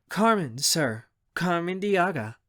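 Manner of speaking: eager-to-please introduction, lifted pitch; ingratiating and friendly; friendly suck-up. Acted. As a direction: flatter him with a polite, sweet tone. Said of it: "friendly, yet suck-up kind of tone".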